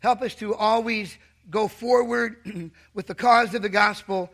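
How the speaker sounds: earnest pastor's prayer; opening prayer from the pulpit. Acted. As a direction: pray over the congregation, sincere and steady. Leads the congregation in prayer.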